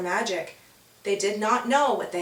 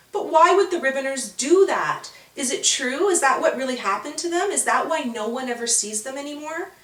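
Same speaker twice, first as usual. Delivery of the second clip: higher, eager questions; curious child; 4 semitones higher than usual. Acted. Winter questioning Holly, higher and eager. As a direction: pepper her with questions. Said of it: "Winter asking questions".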